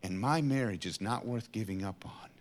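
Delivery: hushed, whispered conviction. Real, not acted. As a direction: whisper it like a vow. Intimate personal confession.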